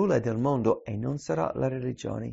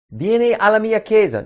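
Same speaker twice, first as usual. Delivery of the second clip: higher, louder mock call to church; mock invitation; 6 semitones higher, 9 dB louder than usual. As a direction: parody what Jesus never said. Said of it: "Non dice quello".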